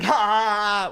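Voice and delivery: high mock "haa" laugh; imitated mocking laughter. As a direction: imitate a crowd laughing at you. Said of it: "everyone's just laughing".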